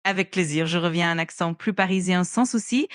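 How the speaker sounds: put-on French with a light Parisian accent. Assistant returning on request to French, light Parisian accent. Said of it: "peux-tu retourner à l'accent français parisien?".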